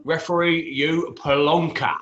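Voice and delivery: slow mock-Cockney jibe; Del Boy. Co-host insulting the referee, light Cockney impression. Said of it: "Del Boy, if we're sticking with our Cockney".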